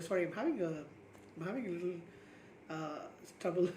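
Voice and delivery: talking through heartburn discomfort; strained, interrupted by heartburn. Real, not acted. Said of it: "I think I've got, uh, heartburn kind of stuff".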